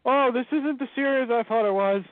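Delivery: dawning horror, played for laughs; hammed-up oh no; mock dismay. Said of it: "I'm like".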